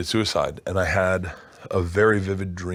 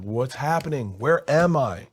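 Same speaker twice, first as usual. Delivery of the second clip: mildly panicked, rising pitch; bewildered baby-bound buddy; 4 semitones higher, slower than usual. Retold or imitated. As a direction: voice a confused friend waking up lost. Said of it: "I could translate his crying".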